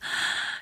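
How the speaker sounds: short hissing intake of air; quick noisy inhale; hissing gasp. Shown as a demonstration. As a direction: suck air through a closed throat. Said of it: "I don't wanna hear a lot of".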